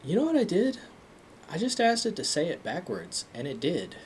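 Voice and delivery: amazed, eager retelling of discovery; excited friend. Retold or imitated. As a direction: tell it like you can't believe it worked. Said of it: "and he's like".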